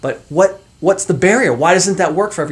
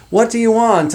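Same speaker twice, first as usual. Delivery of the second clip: higher mock Canadian accent; a playful imitation of a Canadian accent, pitched up; 9 semitones higher, 3 dB louder than usual. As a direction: toss it off like a Canadian kid. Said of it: "I started saying this little A".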